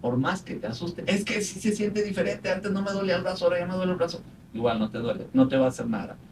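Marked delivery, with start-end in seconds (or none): 1.0-4.2 higher, mock worried patient voice; paciente angustiado. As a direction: play the frightened patient, hammed up lightly. Voicing a worried anxious patient. (paciente asustado imitado, más agudo)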